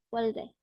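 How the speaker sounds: Olde with the liquid R-L sound, said clearly; pronunciation model. Shown as a demonstration. Teacher repeating Olde for students, clear model. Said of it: "lo vamos a pronunciar como".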